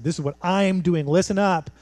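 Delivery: firm, emphatic stress on "I"; hammering the point. Acted. Preacher as Micah demanding attention, hammering the point. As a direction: punch "I" and drive home "Listen up". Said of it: "is hammering the point".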